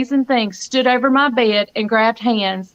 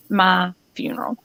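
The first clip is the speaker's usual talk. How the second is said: whispered; 3 semitones lower, 3 dB quieter than usual. Real, not acted. Planning her own funeral.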